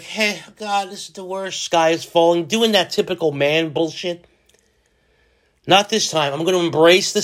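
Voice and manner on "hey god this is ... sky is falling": mock whiny complaint. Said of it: "I would be like".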